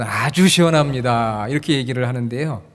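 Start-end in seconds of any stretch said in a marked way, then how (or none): 0.0-1.5 slow Seoul-style "아주 시원합니다", 아주 drawn out; Seoul dialect. Shown as a demonstration. Pastor to congregation, Seoul-dialect demo, slow and drawn out. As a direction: pastor demos how Seoul people praise the cool air, slowly. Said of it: "서울, 경기, 수도권에 계신 분들은".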